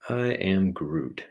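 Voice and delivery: slowly drawn out Groot. Pretend. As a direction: say it like the tree creature. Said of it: "Groot impression".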